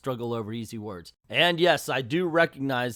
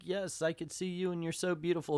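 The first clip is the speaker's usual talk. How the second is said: Jiminy Cricket; 5 semitones higher, 5 dB quieter than usual. Retold or imitated. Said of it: "he sounds like Jimmy Cricket".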